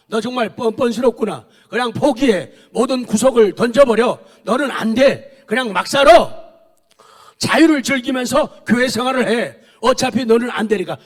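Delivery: mocking devil taunting the congregation; devil's voice. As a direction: sneer like the devil tempting a believer. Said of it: "마귀가 뭐라고 속삭여요?".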